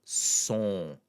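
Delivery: "son" with a nasalized oh; nasal O. Shown as a demonstration. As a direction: let "son" hum out through the nose. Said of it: "start with the nasal sound".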